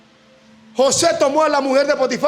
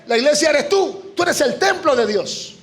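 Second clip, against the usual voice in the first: fiery preaching; 3 semitones higher than usual. Real, not acted. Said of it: "es que en Panamá predicamos así".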